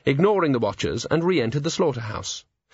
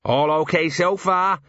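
cheerful shout; 6 semitones higher than usual. A narrator's reading. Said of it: "he shouted as he went past".

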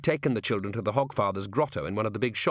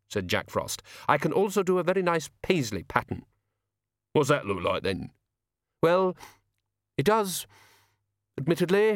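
higher, defensive artist voice; touchy sprite insisting he has range; Jack Frost, prickly; 5 semitones higher than usual. A narrator's reading. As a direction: get a little huffy about the ferns.

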